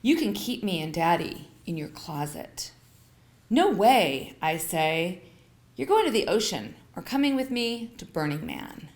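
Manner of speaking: measured, expressive story narration; memoir reading. A narrator's reading. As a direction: read your own story aloud to listeners. Reads memoir aloud.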